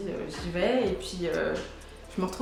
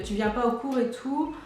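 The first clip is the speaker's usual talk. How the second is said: gentle voice; 3 semitones higher than usual. Retold or imitated. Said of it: "une voix un petit peu gentille".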